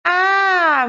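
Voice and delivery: ordinary talk, nothing marked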